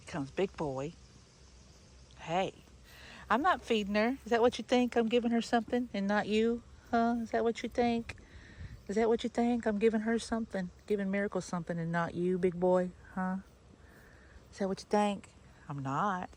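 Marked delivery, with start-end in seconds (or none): 3.3-15.3 higher, louder mock scolding; teasing scold. Real, not acted. Owner teasing jealous rabbit Big Boy, higher playful scolding. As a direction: tease the jealous pet.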